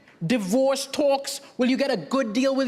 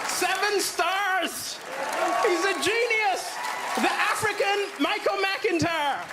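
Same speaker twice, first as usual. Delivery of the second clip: gushing review; 4 semitones higher, slower than usual. Pretend. Mock gushing review read out.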